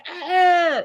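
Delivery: a light mocking "Ah!" copying a YouTuber; imitated scream. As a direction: toss off a quick imitation of his scream. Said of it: "that screams".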